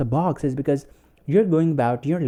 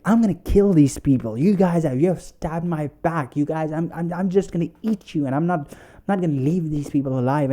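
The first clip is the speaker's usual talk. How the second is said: imitated angry rant; 4 semitones higher than usual. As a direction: act out a partner ranting for revenge. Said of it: "he's, like, jumping and raw".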